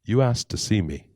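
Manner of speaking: calm, understated reveal; acted serene beggar. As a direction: state it simply, unruffled. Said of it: "very calmly".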